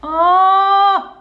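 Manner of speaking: loud, high, delighted oh; delighted cry. Real, not acted. Reacting to the baby's scan, delighted cry.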